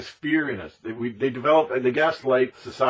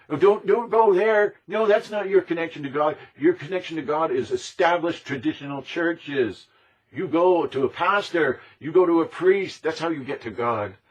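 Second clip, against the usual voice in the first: mocking preachy voice; 5 semitones higher, 3 dB louder than usual. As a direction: ham up a patronising churchy scold. Mocks archons pushing churches.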